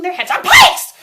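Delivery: sudden high, loud yell; maniacal yell. Acted. Critic's calm cracks, sudden shout. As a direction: burst out at the end. Comic violent burst.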